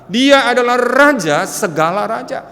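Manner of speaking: loud, high proclamation; soaring preacher's cry; preaching at full force. Acted. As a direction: proclaim it to the whole church. Preaching climax on the king.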